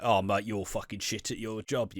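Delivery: put-on Cockney voice for an inspector. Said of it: "I don't know why he's Cockney".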